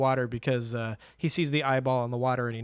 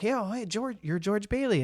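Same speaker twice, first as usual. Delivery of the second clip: imitating Mary; 6 semitones higher, 4 dB quieter than usual. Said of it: "she's like".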